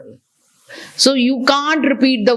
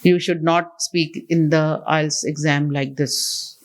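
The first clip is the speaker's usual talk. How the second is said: level, lowered robotic monotone; monotone demo; 5 semitones lower than usual. Shown as a demonstration. Trainer showing students how not to speak in the exam, monotone. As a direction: recite it on one tone, robot-like. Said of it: "It's a monotone".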